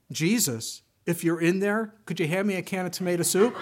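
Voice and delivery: put-on a little boy calling into the dark, hopeful.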